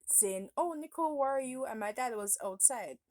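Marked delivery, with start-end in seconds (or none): 0.6-1.7 high, loud call across the house; mom calling out. Retold or imitated. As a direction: call out for a missing child. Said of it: "my mom was calling me out".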